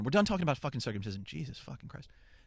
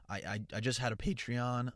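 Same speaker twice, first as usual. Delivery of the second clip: voice cracking; 2 semitones higher than usual. Real, not acted. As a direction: voice cracks mid-sentence. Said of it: "um, voice crack".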